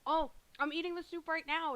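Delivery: loud, high excited burst. Real, not acted. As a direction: blurt it out thrilled. Sudden excited food remark.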